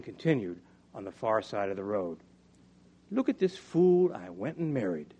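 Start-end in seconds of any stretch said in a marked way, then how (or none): 3.1-5.1 raised, high-pitched wifely complaint; exasperated scorn. Acted. Mary on her drunken husband, exasperated scorn. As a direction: complain loudly about a useless husband.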